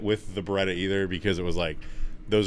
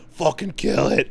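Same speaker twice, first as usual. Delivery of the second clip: higher, louder order to kill; urging shout; 8 semitones higher, 10 dB louder than usual. Retold or imitated. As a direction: bark the order up high. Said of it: "And he's like".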